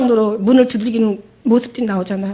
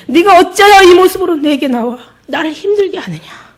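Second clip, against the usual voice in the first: much higher, louder grieved call; Jesus, loud and higher, rebuking the woman; stern rebuke; 4 semitones higher, 6 dB louder than usual. Acted. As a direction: plead and rebuke at once.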